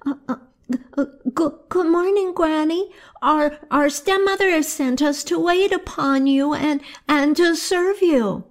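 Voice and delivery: put-on high, stammering, frightened child; terrified stammer. Twins greeting the witch, stammering in terror. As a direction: stutter with fear before the witch. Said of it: "so terrified".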